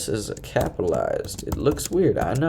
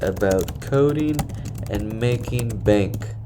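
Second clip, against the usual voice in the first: mad scientist; slower than usual. Pretend. Evil villain welcome with Mwahaha.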